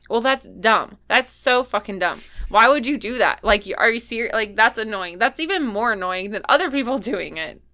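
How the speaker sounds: loud annoyed rant; vent, exasperated and loud. Real, not acted. Annoyed rant about studio.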